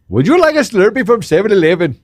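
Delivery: high-pitched, badly faked Australian accent; botched Australian accent. Offering a Slurpee from seven eleven, botched Australian accent. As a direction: attempt Australian and miss it completely. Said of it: "I'll do my best, uh ... Australia voice".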